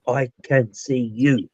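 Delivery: slow, soft imitation of a deep voice. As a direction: imitate a deep voice, quietly stretching each word. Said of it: "in a very, very deep voice".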